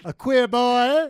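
loud, slow, dramatic proclamation. Pretend. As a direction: declare it like a big reveal. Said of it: "I love to be dramatic".

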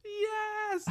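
dad yelling yes in a packed theater; excited yes. Retold or imitated. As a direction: shout yes like a thrilled deaf dad. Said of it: "he responds".

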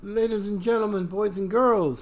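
lightly voiced circus ringmaster. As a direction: call out to the crowd like a showman. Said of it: "podcast opening address".

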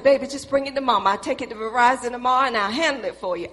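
fast, coaxing mama voice; butter him up quickly; fast coaxing mother; sweet-talking mother. Retold or imitated. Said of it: "I knew what was going on".

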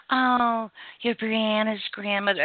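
high, drawn-out sing-song greeting; sing-songy. Retold or imitated. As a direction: imitate the teacher's sing-songy voice. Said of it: "in that sing-songy voice".

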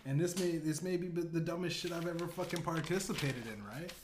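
ordinary talk, nothing marked

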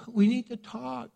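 a mock ominous we need to talk; ominous wife. Wife warning husband, mildly ominous. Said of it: "don't say it like that".

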